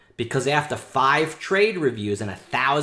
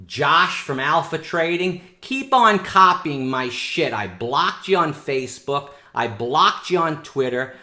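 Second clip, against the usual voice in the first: louder, heated call-out at a rival; angry rant; 3 semitones higher, 6 dB louder than usual. Real, not acted. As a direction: tell off the copycat. Rant at rival copying him.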